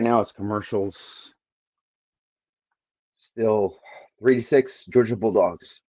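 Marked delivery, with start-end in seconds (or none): 3.2-5.8 raspy, worn-out voice like a chain smoker; hoarse, gravelly throat; smoker's rasp. Real, not acted. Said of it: "I sound like a chain smoker right now".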